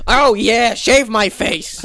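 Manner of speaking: slow put-on sultry voice; mock sultry voice.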